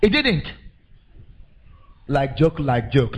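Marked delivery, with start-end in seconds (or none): 2.1-3.2 lightly Nigerian "Like joke"; Nigerian Pidgin phrase. Shown as a demonstration. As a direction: say it the Naija way. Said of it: "like we dey say for Nigeria".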